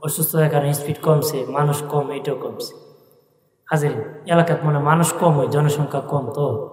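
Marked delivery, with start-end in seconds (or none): 0.0-2.7 softer, tired from dizziness and fever; weak and ill. Real, not acted. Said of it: "আস্তে আস্তে বলতেছি".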